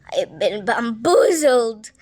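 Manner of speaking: slow, whispered disbelief. Real, not acted. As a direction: breathe it out stunned. Narrator stunned by the episode.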